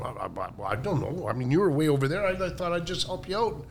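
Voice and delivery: meek stammer. Retold or imitated. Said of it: "And I'm going".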